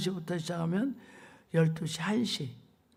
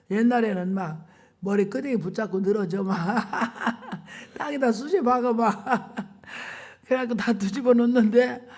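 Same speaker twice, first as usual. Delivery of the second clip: laughing while telling; 2 semitones higher than usual. Real, not acted.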